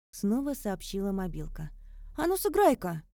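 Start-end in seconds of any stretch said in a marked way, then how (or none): 2.2-3.0 suspicious. A narrator's reading. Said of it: "подозрительно попросила я".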